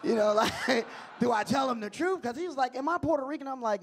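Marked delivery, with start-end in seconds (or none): 2.8-3.5 higher-voiced imitation of a toddler; little son's question. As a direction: ask like a curious small child. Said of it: "my son asks me questions".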